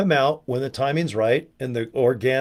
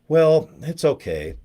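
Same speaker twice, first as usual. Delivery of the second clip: slow shrug; slower than usual. Retold or imitated. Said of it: "our owner must be kinda like".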